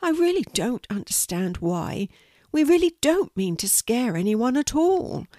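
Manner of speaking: little spider, mildly hurt and puzzled; a touch of sadness, rising in pitch; sad spider. Acted. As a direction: plead innocence in a small spider voice. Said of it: "said the spider sadly".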